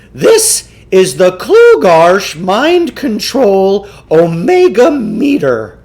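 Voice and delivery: pompous huckster lecturing his marks; Samuel Klugarsh voice. Acted. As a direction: play the self-assured mind-control huckster. Klugarsh presents meter.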